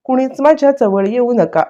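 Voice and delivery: half-hearted retold cry to keep everyone away; mock yelling. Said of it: "मोठ्या मोठ्याने ओरडायलाच लागलेली".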